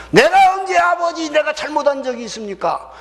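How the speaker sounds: high, shouted elder son's complaint; self-righteous protest. Acted. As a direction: protest your spotless record at full pitch. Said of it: "자기가 의롭다고 하는 거야". (스스로 의롭다며 높게 따지는 소리)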